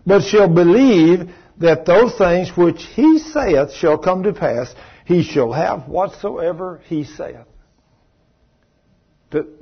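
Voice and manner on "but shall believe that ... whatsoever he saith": slow scripture reading. Acted. Preacher reads scripture slowly.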